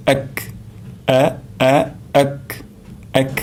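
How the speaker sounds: এক begun with a firm glottal catch; a strong throat-start on এ; firm hamza. Shown as a demonstration. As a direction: hit the hamza of এক hard from the throat. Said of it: "শক্তভাবে উচ্চারণ করতে হবে".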